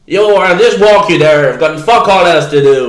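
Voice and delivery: loosely imitating an Irish homeless man's accent. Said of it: "I'm not just doing accents for no reason".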